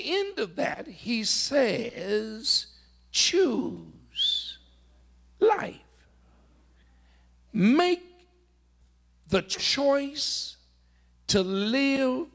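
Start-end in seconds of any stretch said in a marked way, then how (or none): 3.1-5.8 soaring command. Acted. Climax of Moses' command. 7.5-12.3 urgent exhortation. Acted. Preacher urges congregation.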